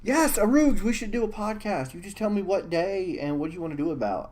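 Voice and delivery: put-on light Scottish Sean Connery accent; a hint of Sean Connery's Scottish accent. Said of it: "I'll talk like Sean Connery".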